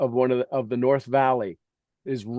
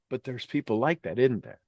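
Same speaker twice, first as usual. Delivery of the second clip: normal talking voice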